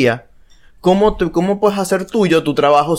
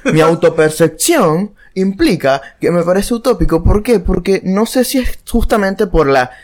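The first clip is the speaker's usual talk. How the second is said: louder, higher heated point; talking loud; 4 semitones higher than usual. Real, not acted. Arguing his view to a friend, heated and loud. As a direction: push the point hard, a bit too loud. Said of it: "ahora el que está hablando duro soy yo".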